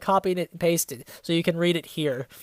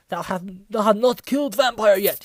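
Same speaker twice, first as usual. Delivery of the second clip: a lightly voiced, mock-stern villain; mock angry Voldemort; 3 semitones higher than usual. Voldemort angrily scolds the goth narrator, lightly hammed up. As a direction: ham up a villain's angry demand. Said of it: "he said angrily".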